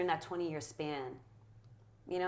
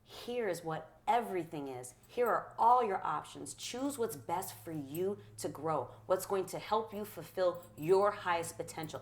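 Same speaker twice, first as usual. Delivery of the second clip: gentle inspiring. Retold or imitated. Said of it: "inspiration is".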